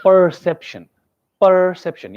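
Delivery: "perception" with a weighty, held "per"; stress on PER. Shown as a demonstration. Teacher shows a student the stressed syllable, stress on "per". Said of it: "syllable stress is more on P E R".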